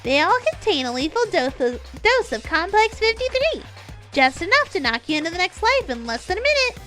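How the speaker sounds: high, loud, hyped announcer voice; fighting game announcer. Acted. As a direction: boom it out like a show host. Announcer voice in story.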